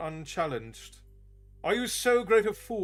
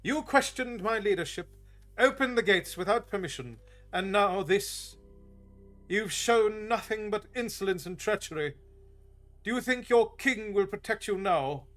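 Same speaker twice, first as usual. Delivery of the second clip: higher, louder, accusing rant; furious tirade; 7 semitones higher, 4 dB louder than usual. Acted. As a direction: pile up the charges in rage. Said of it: "turned on Oric furiously".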